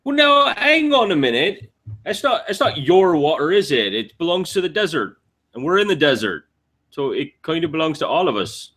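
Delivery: high-pitched, folksy protest; naive desert wanderer, objecting. Acted. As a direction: argue innocently in a high character voice.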